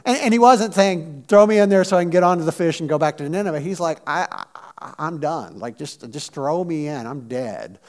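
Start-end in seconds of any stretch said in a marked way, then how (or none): 1.3-3.6 rattled off fast and casually; breezy mock request. Mock version of Jonah's request. 4.1-7.8 low, soft, defeated mumble; resigned. Acted. Acts out Jonah giving up.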